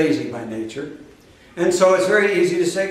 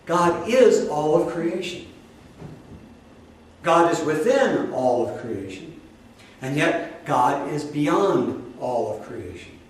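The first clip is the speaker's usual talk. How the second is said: slow and softer, leaning on within and beyond; slower emphatic repeat; 3 dB quieter than usual. Shown as a demonstration. Preacher repeating the definition for the congregation, slower and softer. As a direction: spell it out again, slowly and gently. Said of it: "You got that?".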